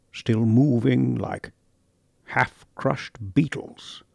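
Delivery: very slow, soft, halting horror; haunted recollection. Acted. Lewis describing the trenches, slow and haunted. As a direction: drag each image out of memory.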